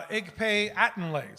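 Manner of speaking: "Igpe Atenle" sounded out slowly; slow demo of "Igpe Atenle" with "ay" endings; Pig Latin demonstration. Shown as a demonstration. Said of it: "Pig Latin".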